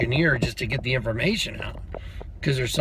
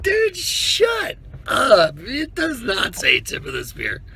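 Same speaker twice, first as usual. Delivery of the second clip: incredulous outburst; 11 semitones higher, slower than usual. Retold or imitated. To a buddy about the engraved spear tip, incredulous. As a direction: draw it out, utterly amazed. Retelling disbelief at the inscription.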